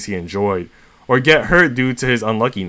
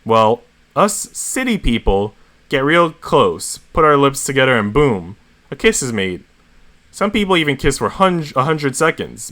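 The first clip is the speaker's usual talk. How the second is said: exaggerating; 4 semitones higher than usual. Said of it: "making it as extra as possible".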